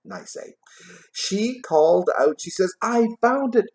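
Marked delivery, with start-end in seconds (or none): 2.8-3.7 much higher, gleeful shout of discovery; gleeful cry. A narrator's reading. Plump sister guessing at the parlor game, gleeful high cry. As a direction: blurt it out like you've just won. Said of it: "she cried out with glee".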